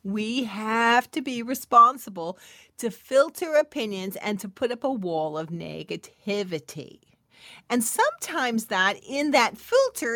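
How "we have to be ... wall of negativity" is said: said again, louder. Shown as a demonstration. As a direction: repeat it with more force. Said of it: "I'll say it again".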